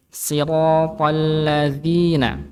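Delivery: slow chant of "siratal ladzina" with a voiced th for dz; correct zal. Shown as a demonstration. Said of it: "jangan sampai kita keliru". ("siratal ladzina" pelan dengan zal yang benar)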